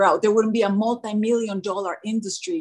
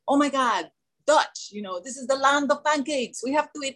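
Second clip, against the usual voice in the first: "crux" no, high, giddy "Oh my God, let's go eat"; mock-thrilled at the chance to celebrate with food; excited inner voice; 6 semitones higher than usual. Speaker mimics her own craving thoughts, high and giddy.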